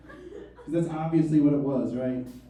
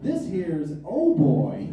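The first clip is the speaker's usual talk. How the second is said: slow folksy drawl; 3 dB louder, much slower than usual. Retold or imitated. Yokels introducing him.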